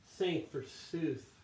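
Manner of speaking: resentful monk sneering to himself; acted-out soliloquy. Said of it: "try to act this out".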